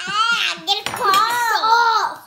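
put-on child showing off a French move, slow and loud; hammed-up French. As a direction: announce "croissant" like a proud French waiter. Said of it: "your new French move".

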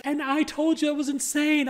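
high, slow mock teacher retort; teacher's retort. Teacher snapping back at the student, high slow mimicry. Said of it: "she's like".

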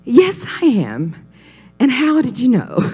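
drawn-out, smile-filled reply; big smile. Retold or imitated. Preacher answering a stranger on a plane, with a big smile. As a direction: answer slowly through your biggest smile. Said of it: "I put my biggest smile on".

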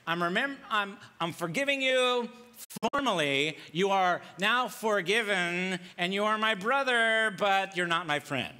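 quick, offhand mock forgiveness, only half meant; grudging minimal forgiveness. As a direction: rattle off a grudging pardon. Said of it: "we kinda offer the minimum forgiveness".

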